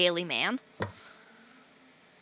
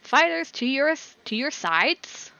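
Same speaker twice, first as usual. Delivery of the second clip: announcer calling fighters; 7 semitones higher, 3 dB louder than usual. Acted. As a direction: send the fighters to their places. Announcer orders fighters apart.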